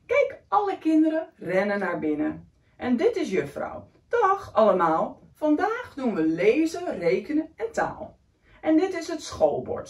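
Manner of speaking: put-on lively read-aloud for a child; story reading. A narrator's reading. Reading a picture book to a young child, lively. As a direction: read the picture book warmly to a little one.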